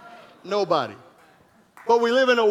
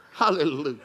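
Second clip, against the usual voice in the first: laughing hallelujah; 7 semitones lower, 4 dB quieter than usual. Real, not acted. Laughing exclamation.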